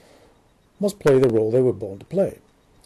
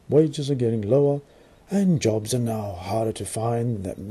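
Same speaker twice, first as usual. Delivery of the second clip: mock British accent. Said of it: "I'm trying to do this strange, non-existent British accent".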